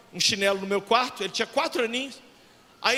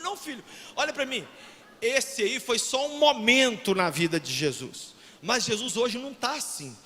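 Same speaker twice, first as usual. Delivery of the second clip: put-on soft, calm comfort to a child; reassuring; 4 dB quieter than usual. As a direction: soothe your crying boy. Father comforts crying son.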